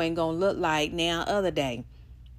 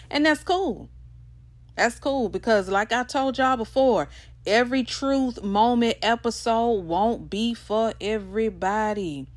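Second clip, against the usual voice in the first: animated; 6 semitones higher, 3 dB louder than usual. Real, not acted. Emphatic animated aside.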